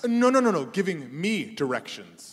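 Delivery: quick loud grab for attention; eager claim. Acted. Rival coder claiming the local's help, eager and insistent. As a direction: jump in first, insistent.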